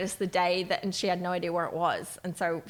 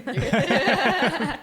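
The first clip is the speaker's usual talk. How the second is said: talking with tongue out; tongue sticking out; 5 semitones higher, 6 dB louder than usual. Real, not acted. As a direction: say it with your tongue stuck out. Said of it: "Did you just try to talk with your tongue out?".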